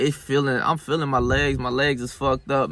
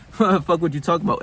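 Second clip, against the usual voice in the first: laughing dismissal; 4 semitones higher than usual. Retold or imitated. Man laughing at his self-doubt on the leg press, laughing dismissal. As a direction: scoff it through a laugh, pitched up. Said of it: "I'm just laughing".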